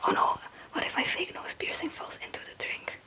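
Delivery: ordinary talk, nothing marked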